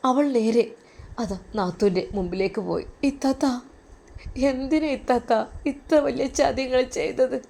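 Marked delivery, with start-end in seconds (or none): 3.1-7.4 tearful pleading. Acted. Sister weeps to sister-in-law.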